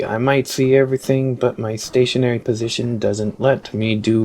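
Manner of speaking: lightly voiced, measured machine character; stilted, deliberate game dialogue; robot overseer. Overseer bargains with the old prototype, lightly robotic.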